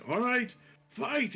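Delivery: high, drawn-out announcer shout; fight-starting call. Acted.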